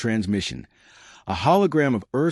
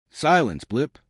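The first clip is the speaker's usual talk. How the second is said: sharp snap; 5 semitones higher, slower than usual. A narrator's reading. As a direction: cut him off sharply. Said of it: "Raglar snapped".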